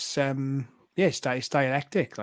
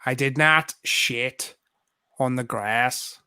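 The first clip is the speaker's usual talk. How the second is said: Irish cow voice; slower than usual. Pretend. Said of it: "an Irish".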